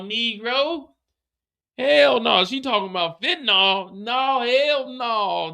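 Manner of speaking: mock-outraged high squeal, dragging out hell no. CO refusing Diamond's fentanyl, high outraged squeal.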